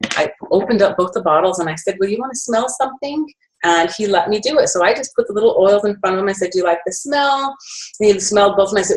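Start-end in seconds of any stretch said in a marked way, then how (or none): 2.0-3.3 higher-pitched, gentle offer, lightly acted; coaxing a child. Coaxing the little boy to smell the oils, coaxing. 6.5-7.5 high-pitched question as to a little one; lightly acted kid-friendly asking; coaxing a child. Asking the little boy about the oils, coaxing.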